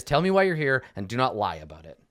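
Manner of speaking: brisk command. Acted. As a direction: rattle off the order emphatically. Restating the magical command.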